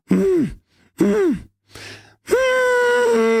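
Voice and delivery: nasal hum demo. Shown as a demonstration. Coach answering how to push sound through the nose. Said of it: "if you go".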